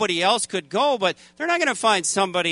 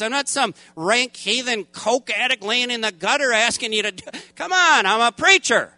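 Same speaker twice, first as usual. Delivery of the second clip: higher, insistent complaint to God; indignant protest; 4 semitones higher than usual. Retold or imitated. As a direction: demand what you think you're owed. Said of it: "starting to get an attitude problem".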